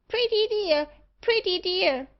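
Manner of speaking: high, loud talking-bird screech; screaming magpie. A narrator's reading. Magpie calls out while barber chatters to it, screaming. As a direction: shriek it like a pet magpie. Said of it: "screamed the magpie".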